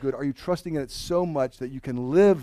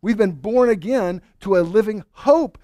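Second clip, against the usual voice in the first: louder, rising preacher's proclamation; proclaimed; 6 semitones higher, 6 dB louder than usual. Shown as a demonstration. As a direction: lift the line and declare it to the room. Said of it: "That's the unseen".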